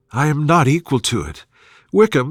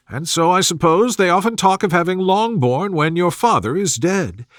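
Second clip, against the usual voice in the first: higher, fretful matron voice; fussy mother; 3 semitones higher than usual. Acted. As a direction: play the gossiping mother, higher. Mrs Bennet voiced in dialogue.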